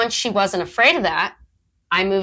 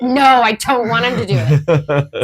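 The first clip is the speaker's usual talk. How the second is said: teasing quote; 5 dB louder than usual. Retold or imitated. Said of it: "You're like".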